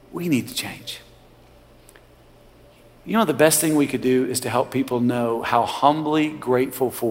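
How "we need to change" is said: pointed drop. Real, not acted. Preacher's pointed drop after the climax.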